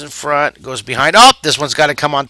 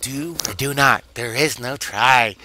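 slow, lightly imitated sage; Yoda; 2 semitones lower, 5 dB quieter than usual. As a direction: recite it slowly like a wise little master. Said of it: "I totally channeled Yoda there".

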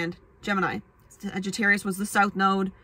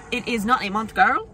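put-on punchy, louder sassy girl; 2 semitones higher, 3 dB louder than usual. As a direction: call her out with attitude. Sassy correction to viewer.

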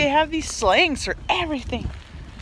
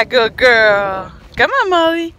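calling the dog; 9 dB louder, slower than usual. Real, not acted. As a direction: coax the dog over loudly.

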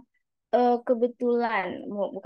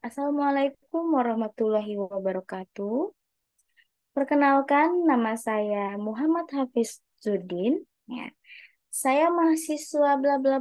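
measured opening with pauses; pauses between phrases; 3 semitones higher than usual. Shown as a demonstration. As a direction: let each phrase breathe, pause before going on. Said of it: "kita kasih jeda".

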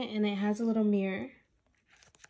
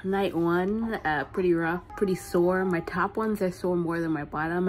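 mild lisp from new aligners. Real, not acted. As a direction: speak with a slight lisp. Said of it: "I have this weird lisp".

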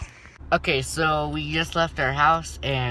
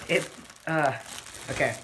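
helium voice; 2 semitones higher, 3 dB quieter than usual. Real, not acted. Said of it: "my voice is gonna be funny".

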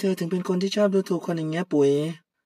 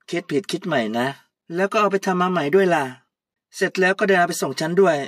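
louder, sharp boss scolding her employee; bossy scolding; 5 dB louder than usual. Acted. Puy scolding Kaew over her mistakes, louder. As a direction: tell her off like an angry boss.

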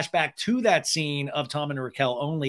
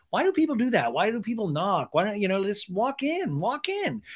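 mock exasperation; 6 semitones higher than usual. Acting out Ariana's complaint.

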